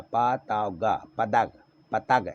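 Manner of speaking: पतंग said as pa-tag, without ng; wrong, nasal missing. Shown as a demonstration. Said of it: "ये गलत था".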